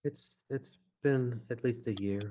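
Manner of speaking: hesitant, mildly mournful widow; subdued grief. Acted. Widow at grave answers a stranger.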